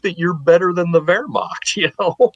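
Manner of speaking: mock indignant Brits. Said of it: "The Brits are like".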